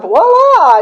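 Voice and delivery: voila sung out high and loud, showing off the magic; triumphant voila. Retold or imitated. She mimics her old self emerging from the closet, a bright, loud voila. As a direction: pop out of the closet with a flourish.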